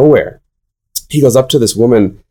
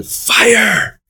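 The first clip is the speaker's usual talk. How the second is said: mock yell, pitched much higher; retold pastor's yell; 10 semitones higher than usual. Pastor laying hands on people at revival, mock yell. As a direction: cry out the word like a revival preacher, half-hearted.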